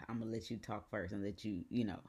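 understated, restrained sternness after a sigh; imitated grandmother. Grandmother on FaceTime demanding explanation, mildly stern imitation. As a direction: lightly imitate a grandmother holding back her reaction. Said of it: "the look how grandmothers look".

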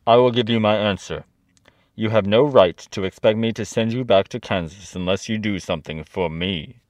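lightly voiced commanding head; stern head of Oz. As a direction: lay down terms as a great head, a touch stern. Voices Oz setting terms.

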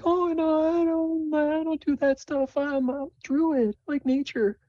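put-on high timid girlish voice; Sable's voice. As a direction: stammer it out like a nervous kid.

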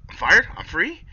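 high, loud delighted question; happy mock voice. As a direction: squeal with joy. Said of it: "Rebo's like".

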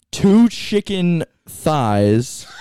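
very slow, laughing shout; laughing out loud. Real, not acted. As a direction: burst out laughing mid-word. Laughing at own food list.

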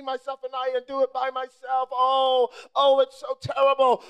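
hammed-up moaning over Egypt; mock lament. Preacher mocks congregation, hammed-up self-pitying wail. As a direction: wail it sarcastically. Mocking complaints about Egypt.

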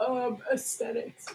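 mid-yawn. Real, not acted. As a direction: yawn through the word. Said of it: "Sorry, I'm yawning right now".

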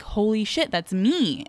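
mildly stunned retold reaction; understated mock shock; retold shocked realization. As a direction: act out a small jolt of recognition. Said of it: "but I'm like".

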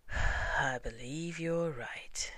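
slow, sighing resignation; sad sigh. Acted. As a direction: let it out on a long sigh. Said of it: "with a long and sad sigh".

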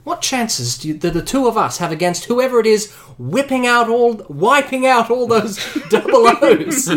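Bond in character. Acted.

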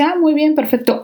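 imitating a kind doctor, bright and high; sweet, patient doctor. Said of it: "un amor". (imitando con cariño a la doctora amable)

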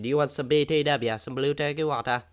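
alien vendor voice. Acted. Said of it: "someone at the Mos Espa would ask you".

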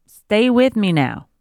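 slow, rising coaxing plea. Real, not acted. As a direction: coax him to stay awake. Urging sleepy husband.

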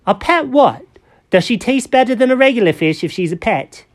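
curious kitty voice. Acted. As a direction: ask it like a wide-eyed kitten.

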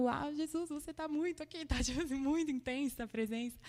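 hushed, lightly hammed-up weepy awe, breaking into a laugh; mock tearful. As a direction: imitate yourself tearfully overwhelmed, softly.

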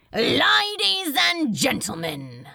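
projected crowd-hailing shout; public announcement. A narrator's reading. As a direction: call out over a noisy room. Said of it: "publicly announced a voice over the din".

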